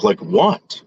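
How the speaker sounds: shoots way up in pitch, playfully incredulous; a kid's startled question; mock surprise. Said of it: "I was like".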